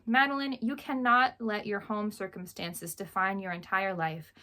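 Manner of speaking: steady, clear read-aloud of a novel's opening. Acted. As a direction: read the first page to your viewers. Reads opening page aloud.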